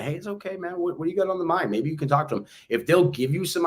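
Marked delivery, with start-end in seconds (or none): 0.0-1.7 soothing calm-down. Retold or imitated. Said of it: "Slow them down".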